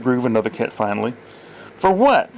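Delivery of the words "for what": high, louder indignant demand with a bit of grit; indignant comic demand; Paul Lynde. A narrator's reading. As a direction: snap back like a campy sitcom comic. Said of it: "voiced by an actor impersonating Paul Lynde".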